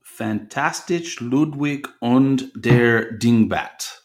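put-on hammy movie-villain German accent, slow; fake German accent. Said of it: "Pardon my fake German accent there".

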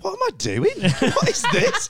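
very high, comic panicked squeak; mock alarm. Gamer questioning himself about befriending a child, mock panic. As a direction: play up the dawning horror, half laughing. Acting out own alarm in story.

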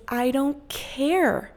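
slow, drawn-out cold dismissal; mean curt tone. Retold or imitated. Mean gate agent slowly brushing off the passenger. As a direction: drag it out to make it sting. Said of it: "the mean lady looks at me and she goes".

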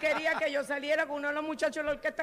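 talks through loud laughter, amused; laughing while talking. Real, not acted. Laughing while retelling the mix-up. (riendo a carcajadas mientras cuenta)

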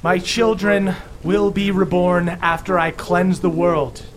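a lightly booming, solemn pronouncement. Acted. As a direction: proclaim it like a stern deity. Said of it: "continues with a booming voice and goes".

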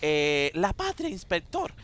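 a hint of a cheeky kid answering the inspector; Pepito the schoolkid. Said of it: "dice Pepito".

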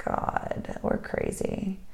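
breathy whispered disbelief. Real, not acted. To her partner, hearing of the trail again, whispered. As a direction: drop to a whisper, half laughing at ourselves.

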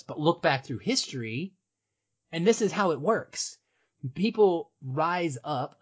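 rising passion, pitch climbing; escalating comedy rant. Acted. Passionate build about uprisings.

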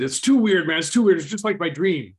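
high, loud, rattled cry; spooked gunman shouting it out; the shooter rattled, shouting that it matches his dream; freaked-out yell. Retold or imitated. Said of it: "And then he said".

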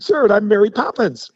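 sarcastic retort before hanging up. Retold or imitated. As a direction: scoff at the caller. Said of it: "I said".

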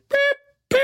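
short high-pitched beeps; lovey-dovey squeak. Retold or imitated. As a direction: imitate a cutesy, annoying couple noise. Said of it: "we're still in love voice".

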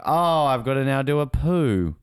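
slightly high, slow, drawn-out mock complaint; playful put-on voice for a dawdling friend; mock quote of friend. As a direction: draw it out, teasing the absent friend. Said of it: "He's like".

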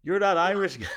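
high, loud excited recognition; mock excited fan. Retelling a fan's excited shout, high and loud. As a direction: play the fan spotting him. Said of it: "he's like".

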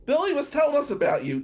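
high, loud fake-friendly hello; mock cheery greeting. Mother answering the phone, high and loud mock cheer.

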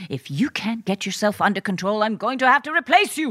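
rapid, no-nonsense ultimatum; stern warning. Acted. Director scolding the giggling young lady, stern warning. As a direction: lay down the law quickly. Director threatens laughing actress.

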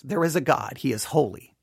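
normal talking voice

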